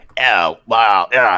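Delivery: mock cartoon villain voice, nasal, with held nose. Imitating villains in old Japanese cartoons: imitating cartoon villains talking with held nose. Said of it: "they're holding their nose".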